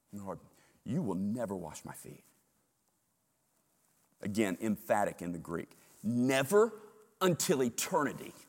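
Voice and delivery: emphatic refusal. Acted. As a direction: dig in, never.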